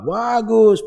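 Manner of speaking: high sarcastic "Bagus"; mock praise. Preacher mocking showy pious dress, high sarcastic praise. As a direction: sneer a mock compliment. Mocking fine clothes of hypocrites.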